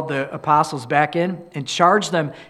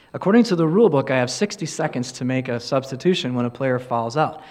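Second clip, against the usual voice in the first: same calm tone; 4 semitones lower, faster than usual. Retold or imitated. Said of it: "in the same tone".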